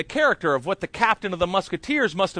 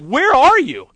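higher, louder urgent call; urgent demand; 8 semitones higher, 9 dB louder, slower than usual. Retold or imitated. Agent on the phone to late actor, urgent. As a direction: demand it, worried he's late.

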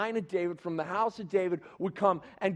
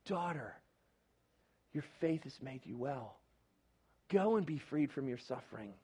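soft, lowered voice of a compassionate God; gentle reassurance; 5 semitones lower, 9 dB quieter than usual. Acted. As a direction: tenderly release her from suffering. God speaking gently to daughter.

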